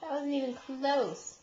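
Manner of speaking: slow, soft, dry tease; dry teasing. Real, not acted. Teasing toddler's wrong answer.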